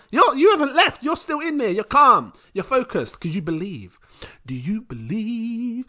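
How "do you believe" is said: slow, probing Nigerian mum voice; a mother testing her son's faith, slowly. Acted. Mum quizzing her son about belief, slow and stern. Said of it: "When you got a half Nigerian mum".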